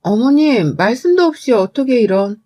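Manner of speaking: mildly taken-aback protest; understated bewildered objection; dumbfounded. Acted. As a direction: protest in disbelief, trailing into a question. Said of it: "제가 황당해하니".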